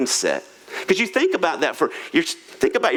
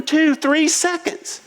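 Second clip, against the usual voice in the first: slow counting; 11 semitones higher, much slower than usual. Retold or imitated. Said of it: "He goes".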